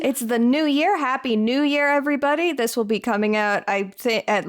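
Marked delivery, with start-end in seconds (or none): 0.0-2.5 high, bright festive greeting; cheery new year greeting. Real, not acted. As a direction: call out happy new year.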